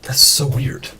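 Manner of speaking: breathy whispered aside to self; whispering. Real, not acted. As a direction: whisper it under your breath. Muttered aside about mic glitch.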